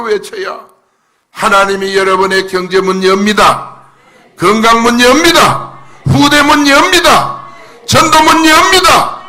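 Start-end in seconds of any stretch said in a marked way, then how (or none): 1.3-9.2 impassioned crying out. Shown as a demonstration. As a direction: proclaim each phrase with rising force. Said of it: "그 감정으로 외칠 때".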